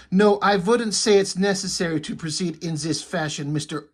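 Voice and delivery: stereotypical cartoon German accent; German-accented woman, W turned to V. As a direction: put on a thick, comic-book German accent. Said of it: "she speak with a ... a German accent".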